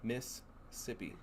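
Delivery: Southern drawl, "Mississippi" slow and stretched, the s held long. Retold or imitated. Imitating how Mississippi locals say it, Southern drawl. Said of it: "That's what they say".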